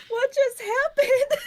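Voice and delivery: high, slow, half-laughing disbelief; mock stunned wail through laughter. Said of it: "just sobbed for".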